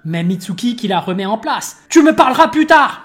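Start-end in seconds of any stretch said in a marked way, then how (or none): 1.9-3.0 role. Acted. Mitsuki voiced brushing off.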